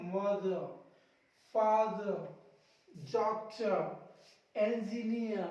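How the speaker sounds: मदर, फादर, डॉक्टर, इंजीनियर each ending on "uh", no R; silent final R. Shown as a demonstration. Teacher reading words ending in R, मदर, फादर, डॉक्टर, इंजीनियर without final R. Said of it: "मदर के last में आर".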